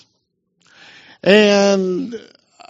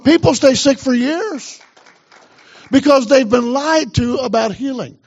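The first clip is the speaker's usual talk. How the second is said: higher, insistent repeat; emphatic preaching; 5 semitones higher than usual. Real, not acted. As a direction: drive the point home to the church, pitched up. Repeats it, urging the congregation.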